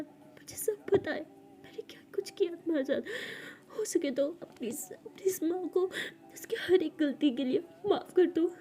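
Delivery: a mother sobbing for forgiveness before she dies; breaking into tears. Acted. Mother begging daughter's forgiveness, hushed then crying. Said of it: "बहुत ज़्यादा रोने लगती है".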